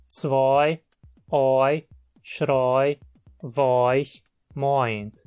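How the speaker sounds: each eu said as the diphthong oi. Shown as a demonstration. Teacher shows eu words said as oi. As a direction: model the oi glide in every word. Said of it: "forma o ditongo oi".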